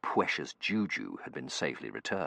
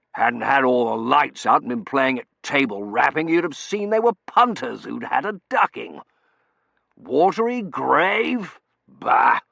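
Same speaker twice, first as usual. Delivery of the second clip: gruff colonel voice; 8 semitones higher, 11 dB louder than usual. Acted. Colonel character voice.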